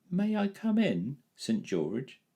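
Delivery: high, slow, polite ask. A narrator's reading. Boy politely asking Saint George, high. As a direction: ask gently at the door. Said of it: "said the boy politely".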